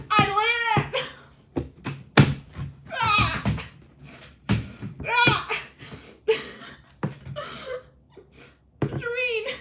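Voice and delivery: very high, loud, slow mock crying; hammed-up sobbing wail. Intern wails to Mister Bean in hammed-up high sobs. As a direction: wail like a melodramatic child.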